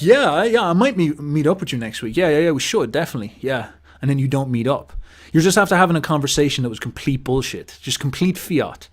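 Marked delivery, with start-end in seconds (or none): 0.0-3.7 1 noncommittal friend. Retold or imitated. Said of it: "And you're like".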